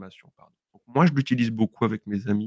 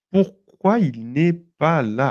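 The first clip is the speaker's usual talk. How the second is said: Pourquoi drawn out slowly, là held long; slow model question; 5 semitones higher, 4 dB louder, much slower than usual. Shown as a demonstration. Teacher voicing a sample question, slow. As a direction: ask it slowly, as a class example. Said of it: "Alors en français".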